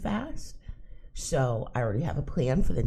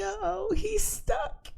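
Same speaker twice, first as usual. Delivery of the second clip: much higher, amused uh-oh; high amused gossip to son; mock worried uh-oh; 4 dB louder, slower than usual. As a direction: squeal it out in delight.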